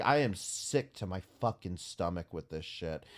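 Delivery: low, soft, sickened; disgusted. Real, not acted. Streamer sickened by what the poem reveals, low and soft. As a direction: drop it low like it turns your stomach.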